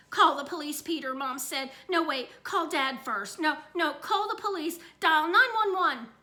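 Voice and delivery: flustered, urgent orders; mother frantically deciding whom to call; frantic. Acted. Mother panics, calls for help.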